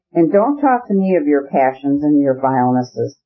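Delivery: ordinary delivery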